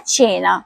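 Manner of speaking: "چینا" with a ch sound at the start; ch pronunciation. Shown as a demonstration. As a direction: demonstrate "چینا" as CHE-na. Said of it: "تو اس کا صحیح تلفظ ہے". ("چینا" کو چے کی آواز سے پڑھیں)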